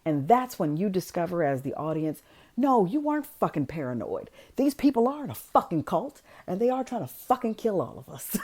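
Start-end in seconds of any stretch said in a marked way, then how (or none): 2.5-8.4 high, emphatic mock alarm; worked-up retold outburst, punching the swear words; emphatic realization. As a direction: voice a dawning realization, pitch climbing. Audience's realization voiced in recap.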